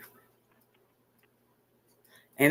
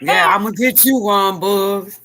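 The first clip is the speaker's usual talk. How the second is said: playful threat; 3 semitones higher than usual. Pretend. Bestie jokingly threatening Ron Boogs, playful threat. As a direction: promise payback with a grin.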